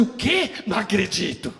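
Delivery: high, loud, laughing through the words; laughing disbelief. Retold or imitated. Pastor reage com riso. (riso incrédulo, alto e agudo)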